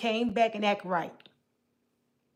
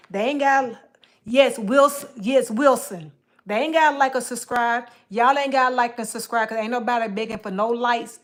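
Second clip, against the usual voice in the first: loud insistence; 7 dB louder than usual. Real, not acted. Loudly telling chat off.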